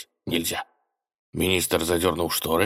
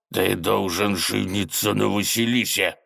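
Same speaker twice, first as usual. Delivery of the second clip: barked command. Acted. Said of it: "рявкнула тень".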